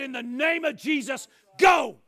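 loud final go; a shouted dismissal; commanding rebuke. Pretend. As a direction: order it out with force. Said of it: "I said".

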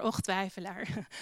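softly ironic och twijfelaar; wry, deadpan quote of Jesus; dry mock encouragement. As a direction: say it with a quiet ironic sigh. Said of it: "Hoe bemoedigend".

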